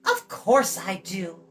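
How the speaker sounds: put-on high, bright girl's voice; chatty girl. Eilonwy talks down to Tarn, high and bright. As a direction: rattle on like a cheeky young girl.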